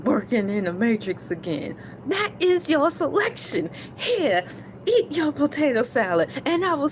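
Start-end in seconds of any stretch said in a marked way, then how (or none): 0.0-1.7 lightly voiced Neo, a touch deadpan; a hint of Neo, calm and matter-of-fact; Neo's voice. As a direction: Neo choosing the potato salad, lightly voiced. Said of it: "in my Neo's voice".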